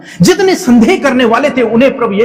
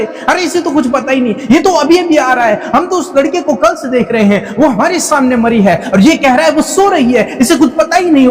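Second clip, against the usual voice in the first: lightly acted scoffing, pitched higher; higher-pitched, mildly mocking retelling; mocking crowd; 4 semitones higher than usual. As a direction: scoff like disbelieving onlookers making fun of someone. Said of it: "उसका मजाक बनाने लगे".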